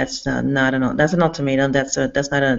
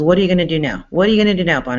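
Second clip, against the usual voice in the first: imitated taunt; 2 semitones higher, 5 dB louder, much faster than usual. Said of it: "he goes".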